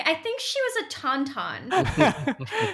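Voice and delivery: drawn out through laughter; slow, giggling mock nerd; slow laughing quote. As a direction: say it slowly, barely holding the laugh. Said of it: "I'm like".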